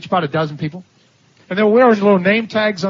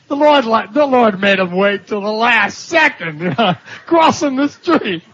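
preaching shout; 3 semitones higher, slower than usual. Real, not acted. The preacher drives home the story's point to the church, a joyful slow shout. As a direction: proclaim it, drawing it out with joy. Preacher stressing God's timing.

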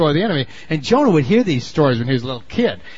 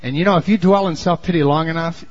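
normal talking voice

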